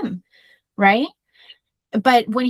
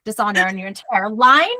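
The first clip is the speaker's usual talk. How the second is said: playful declaiming, each phrase rising at the end; mock dishonor decree; 3 dB louder than usual. Mom jokingly cursing her kids with dishonor, mock-solemn declaiming. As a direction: pronounce a mock family curse, swelling on the last word. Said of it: "I say that and the kids laugh because I'm like".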